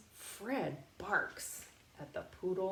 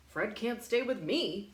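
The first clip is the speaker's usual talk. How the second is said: firm dad; 3 semitones higher, 5 dB louder than usual. Acted. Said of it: "says my dad".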